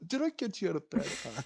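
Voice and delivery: quick, lightly mocking aside; Jabu snickering. Game master voices a snickering voice floating round a player's head, teasing. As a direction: toss it off with a hint of a snicker. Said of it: "he is snickering".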